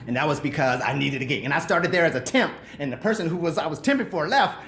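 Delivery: ordinary talk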